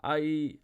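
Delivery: drawn-out held vowel cry; mild narrated wail, cut off; strangled cry. A narrator's reading. As though having her throat cut, a held cry. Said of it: "having her throat cut".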